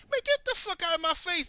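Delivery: high, loud get out of my face; angry shout. Retold or imitated. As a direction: bark it at the crowd. Retold blowup at coworkers.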